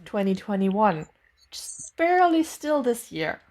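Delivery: unvoiced whisper. Real, not acted. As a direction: breathe the words out in a whisper. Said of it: "So why are we whispering right now?".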